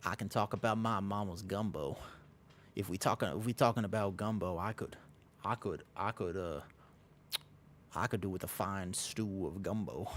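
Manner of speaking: put-on Southern accent. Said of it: "I can only say a few things in a Southern accent".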